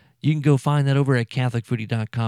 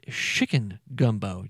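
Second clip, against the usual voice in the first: slow, lightly put-on Cajun accent on "chicken gumbo"; Justin Wilson Cajun speak; 3 semitones lower, 3 dB quieter, slower than usual. Shown as a demonstration. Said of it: "revert into a Justin Wilson type speak".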